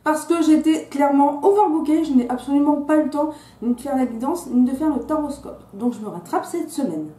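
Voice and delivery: slight lisp from a fresh tongue piercing; lisping on the s sounds. Real, not acted. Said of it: "il est fort probable que je zozote".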